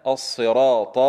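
الصراط with a dark emphatic ط; teacher's measured model of الصراط; heavy open taa. Shown as a demonstration. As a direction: recite الصراط carefully, ط never a plain t. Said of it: "حتى لا تكون تاء".

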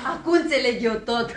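words breaking into a long high laugh; helpless amused laughter. Acted. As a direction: realise it and burst out laughing. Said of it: "Râzi, râzi".

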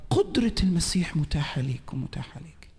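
soft whisper into the listener's ear; a preacher whispering a promise to each believer. Shown as a demonstration. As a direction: lean in and whisper it close. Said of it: "خليني أهمس ده في ودنك".

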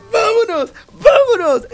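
high, excited cries; victorious cheering. Real, not acted. Gamer celebrating a tremendous comeback, victorious high cheers.

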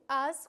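has as a loud, stressed ás; stressed ending. Shown as a demonstration. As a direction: punch the syllable has. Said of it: "con acento".

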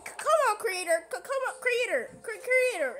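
high, urgent pleading; begging the creator, voice up. Acted.

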